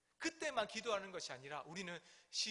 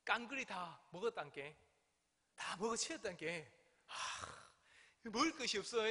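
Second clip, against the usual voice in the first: lightly imitated Jeolla dialect with drawn endings. Shown as a demonstration. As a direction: put on a mild Jeolla lilt, with a sigh midway. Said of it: "전라도 말을 조금 더 부드럽게 얘기하면".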